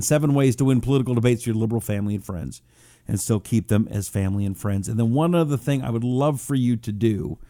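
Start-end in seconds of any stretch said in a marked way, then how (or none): 0.0-4.9 title rattled off fast, almost thrown away; quick title recap. Shown as a demonstration. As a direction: rush through the title as a reminder.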